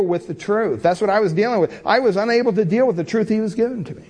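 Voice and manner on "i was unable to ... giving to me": ordinary talk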